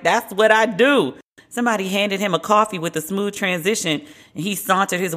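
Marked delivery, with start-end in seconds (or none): 0.0-1.1 slow, self-satisfied brag with a touch of Obama cool; cocky swagger. Retold or imitated. Obama after sinking a three, slow cocky swagger. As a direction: lean back and own the shot. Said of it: "And he was like".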